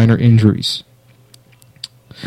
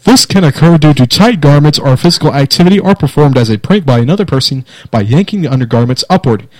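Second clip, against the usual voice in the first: newscaster voice. Shown as a demonstration. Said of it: "gonna try to be serious in the newscaster voice".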